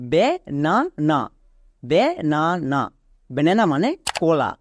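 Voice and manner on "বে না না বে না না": "বে না না" said as three separate syllables. Shown as a demonstration. Teacher sounds out the spelled word for students, "বে না না" syllable by syllable. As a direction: sound out "বে না না" one syllable at a time. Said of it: "তাহলে পুরোটা কি দাঁড়ালো".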